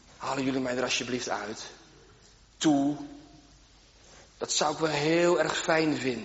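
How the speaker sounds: soft, hushed, almost half-whispered. Speaker acting out a man in a pit asking his brothers, soft, almost half-whispering. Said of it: "zo haast fluisterend gezegd".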